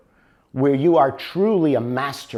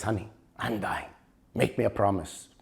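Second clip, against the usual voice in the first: dying man's plea; 6 semitones lower, 10 dB quieter than usual. Acted. Dying old man pleads to wife.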